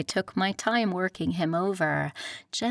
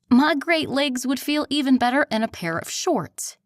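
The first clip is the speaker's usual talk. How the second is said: exasperated; 7 semitones higher, 6 dB louder than usual. Acted. Exasperated Elle pleading.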